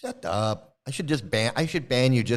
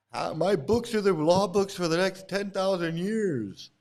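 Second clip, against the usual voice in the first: slow, higher mock guru voice; Prabhupada; 4 semitones higher than usual. Ex-follower mimics the guru boasting about his books, mocking. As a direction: drag out the boast in a mocking put-on voice. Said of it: "claiming to be this and".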